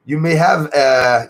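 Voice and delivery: ordinary delivery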